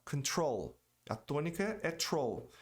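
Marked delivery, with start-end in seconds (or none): 0.0-0.8 "Control" ending on a clear L; correct English control. Shown as a demonstration. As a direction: make the final L of "Control" heard. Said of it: "E o L no final".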